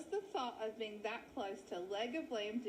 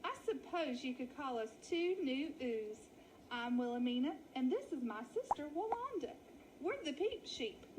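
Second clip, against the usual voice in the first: a wolf batting his lashes, playing dainty; wolf in falsetto lady voice. Wolves posing as ladies.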